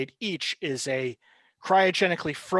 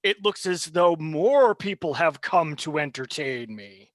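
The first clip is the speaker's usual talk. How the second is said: gloating villain; 4 dB louder than usual. Acted. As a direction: savour the new victims. GM voices the villain figure.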